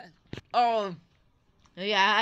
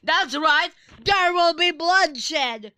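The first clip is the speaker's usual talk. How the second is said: slow, higher hammed-up threat; mock menace; 5 semitones higher, slower than usual. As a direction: ham up a playful villain line.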